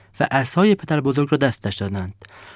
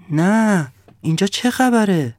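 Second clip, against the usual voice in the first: surprised cry; 6 semitones higher, slower than usual. Acted. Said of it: "خورشید با تعجب فریاد زد".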